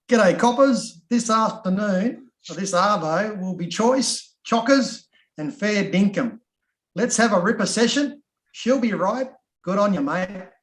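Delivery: hammed-up Aussie accent, pitched high and loud; broad Australian. Shown as a demonstration. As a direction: lay the Australian on thick, punching each slang phrase. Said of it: "introducing myself in Australian".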